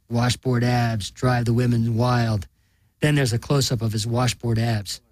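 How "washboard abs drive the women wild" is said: slow, drawn-out TV pitchman line; TV fitness host. Acted. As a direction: sell the abs slowly like an ad host. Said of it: "Nathan says".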